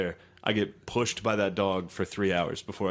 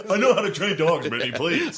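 mock indignant whine; 8 semitones higher, 5 dB louder than usual. Mocking friend's retold argument.

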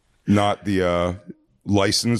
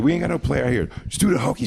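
higher-pitched mock yell, no real volume; mildly raised retold holler; 6 semitones higher, faster than usual. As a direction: imitate an impatient order lightly. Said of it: "She kept yelling".

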